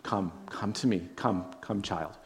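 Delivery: put-on soft, gentle call to a child; a father quietly welcoming his child home; tender invitation. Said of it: "His arms are like this".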